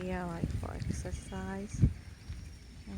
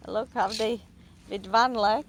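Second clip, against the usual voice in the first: excited; 9 dB louder than usual. Real, not acted. Excited pointing out birds to Romy.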